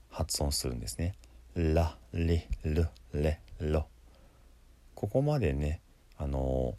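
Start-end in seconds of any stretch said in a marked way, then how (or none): 1.5-3.9 "ラ、リ、ル、レ、ロ" as L, tongue held to the palate; 舌をつけたL. Shown as a demonstration. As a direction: separate each L syllable of "ラ、リ、ル、レ、ロ". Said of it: "そのつけた状態で". (「ラ、リ、ル、レ、ロ」をLで一音ずつ)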